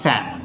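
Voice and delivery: স্যামন with a barely heard "mun"; correct pronunciation. Shown as a demonstration. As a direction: let the end of স্যামন fade to "m'n". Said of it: "এটা একটু কম শোনা যাবে".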